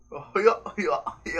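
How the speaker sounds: lightly done rapper impression; a hint of a famous rapper's laid-back voice; rapper impression. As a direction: rapper vibe, hyping himself up. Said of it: "I immediately go to a famous rapper".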